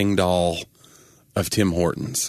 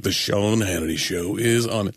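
radio announcer; slower than usual. Retold or imitated. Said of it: "It would be like".

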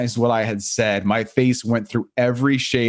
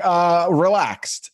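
nervous answer; 6 semitones higher, much slower than usual. Retold or imitated. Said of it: "Martin Short was so nervous".

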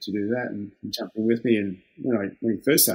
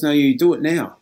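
louder, firm retold order; firm insistence; 4 semitones higher, 6 dB louder than usual. Trades assistant ordering young worker to ring now, firm louder insistence. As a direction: lay down the law, no arguing.

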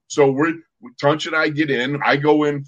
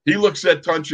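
ordinary delivery

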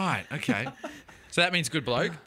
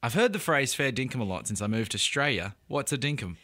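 Scottish accent; 2 semitones lower than usual. Shown as a demonstration. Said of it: "I'll read the question in Scottish".

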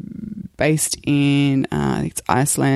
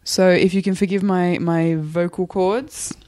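hoarse after a week of flu; rough, worn-out croaky voice. Real, not acted. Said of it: "If you'll excuse my croaky voice".

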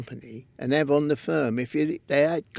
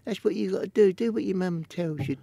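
squeaky, higher voice, half-mimicked; Ronnie's squeaky voice; 6 semitones higher than usual. Ronnie Kray lecturing a young boy in a squeaky voice. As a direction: put on a squeaky gangster voice, not overdone. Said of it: "squeaky voice".

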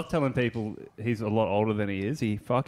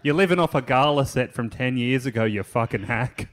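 mock scream; 3 dB louder than usual. Retelling a drunk heckling a comic, mock screamed insult. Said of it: "you started screaming at him".

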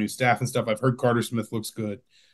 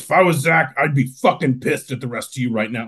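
gravelly coach voice; 3 semitones higher, 4 dB louder than usual. Retold or imitated. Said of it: "he had a real gravelly voice".

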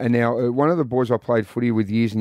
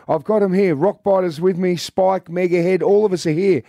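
higher, lively retold bloke calling out; imitating an excited mate rounding up the boys; 5 semitones higher than usual. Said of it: "he goes".

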